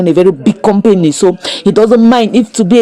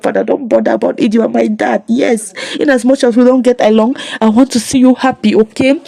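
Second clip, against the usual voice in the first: higher, reassuring daughter's voice; lightly voiced daughter; 4 semitones higher than usual. Daughter reassures her sorry father, lightly voiced higher. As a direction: lightly play a daughter forgiving a parent. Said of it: "And the daughter was like".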